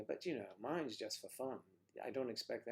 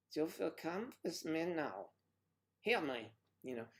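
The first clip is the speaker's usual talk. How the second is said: higher, abrupt German-accented orders; abrupt mock German; 6 semitones higher, 12 dB louder than usual. Shown as a demonstration. Demonstrating how German would flirt, abrupt German accent. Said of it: "It's a little more abrupt".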